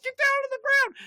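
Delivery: high-pitched shouted cop order; retold cop shout. Cop orders teens at the boat, shouting high. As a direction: holler it like a cop with guns drawn.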